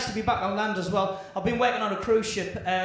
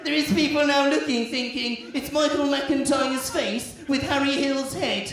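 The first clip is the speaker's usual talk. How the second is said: Michael McIntyre impression. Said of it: "you will sound like Michael McIntyre".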